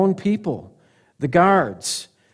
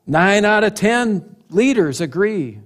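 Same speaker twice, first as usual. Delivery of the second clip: raised, slow proclamation; advertising claim; 5 semitones higher, 3 dB louder than usual. Acted. Preacher recasts the leaders' argument as an advert, proclaiming. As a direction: announce it like an ad statistic.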